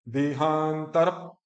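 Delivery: देहांतर slow, syllables drawn out and run together; joined conjunct. Shown as a demonstration. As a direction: draw out देहांतर without a break. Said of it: "इकट्ठा ऐसा बोला जाता है".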